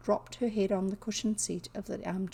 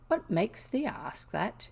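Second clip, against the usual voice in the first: slower, lightly attempted Yorkshire question; 3 semitones higher, slower than usual. Maid questions the curious girl, lightly attempted Yorkshire. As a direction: ask it slowly with a rough Yorkshire lilt. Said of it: "I know it's not a Yorkshire accent".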